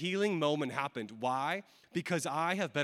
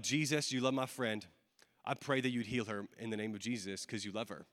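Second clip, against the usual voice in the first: low, relaxed, casual prayer; understated prayer in a low, easy voice; chill prayer; 7 semitones lower, 5 dB quieter than usual. Retold or imitated. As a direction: pray softly and simply, no show. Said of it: "pray in a really chill way".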